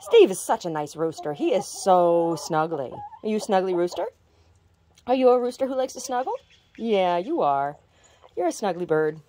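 dote on him lovingly; doting. Real, not acted. Doting on rooster.

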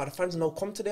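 lightly imitated broken-English accent. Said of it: "but in a broken accent".

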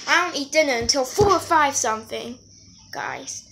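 talking through a mouthful of donut; words muffled by chewing; mouth full. Real, not acted. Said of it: "I'm not talking clear enough".

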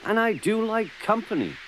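high plaintive start, sinking at the end; long gently for company, then let it drop; wistful sighing. A narrator's reading. Trevor missing children's company, wistful sighing. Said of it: "he sighed one day".

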